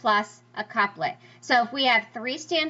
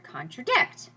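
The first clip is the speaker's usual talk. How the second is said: "contradict" building to a stressed "dict"; two lighter syllables, then land on "dict" in "contradict"; stress on last syllable; slower than usual. Shown as a demonstration. Teacher giving anapest example, "contradict" stressed at end. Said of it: "meter that goes down, down, up".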